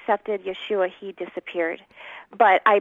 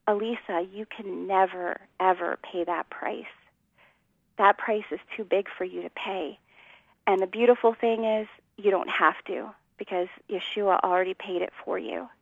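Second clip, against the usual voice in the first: somber; 5 dB quieter than usual. Retold or imitated. Alan answering her outburst in the crowded store, softly and somberly. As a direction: gently hold the weight of each word. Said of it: "he was so somber".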